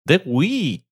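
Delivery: slow, ominous villain intro; mustache twirling villain. Pretend. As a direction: drag it out like a cartoon villain.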